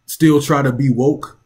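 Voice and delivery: light emphasis on "try"; stress on TRY. Real, not acted. Commentator on would-be woke elites, slight stress on "try". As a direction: lean a little on the word "try". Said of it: "I emphasize the word try".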